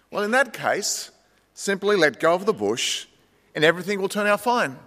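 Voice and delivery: calm voice. Acted. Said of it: "The calm voice then said".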